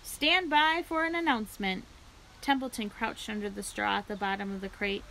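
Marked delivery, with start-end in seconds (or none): 0.0-1.8 high, loud announcer call; the fair loudspeaker calling for attention, high and loud. A narrator's reading. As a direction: boom it to the grandstand.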